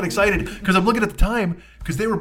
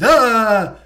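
loud, higher monster moan; Frankenstein's cry; 5 semitones higher, 6 dB louder than usual. Acted. Frankenstein dropping the flower in the water, loud monster moan. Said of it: "He's like".

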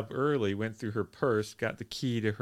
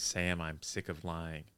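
soft and slow; 4 semitones lower, 7 dB quieter than usual. Retold or imitated. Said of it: "she says".

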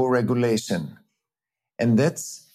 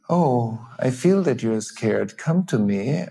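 gentle, feeling-first reassurance; empathic comforting. Shown as a demonstration. Father comforting his frightened child, lightly warm. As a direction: draw the child in with sympathy. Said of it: "I say".

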